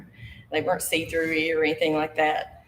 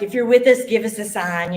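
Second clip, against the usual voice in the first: louder, theatrical seance call to the spirits; hammed-up medium; 3 semitones higher, 5 dB louder than usual. Girl staging a seance to scare the boy, hammed-up medium call. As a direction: ham it up like a fake psychic. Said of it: "I'm hamming it up".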